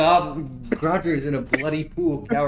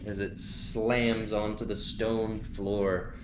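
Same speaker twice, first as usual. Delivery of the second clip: hushed scene narration; 3 semitones lower, slower than usual. A narrator's reading. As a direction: let the scene settle into the dust.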